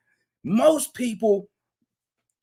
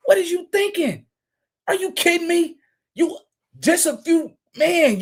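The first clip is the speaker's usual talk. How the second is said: incredulous outburst; 8 semitones higher than usual. Real, not acted. Incredulous rant at woman.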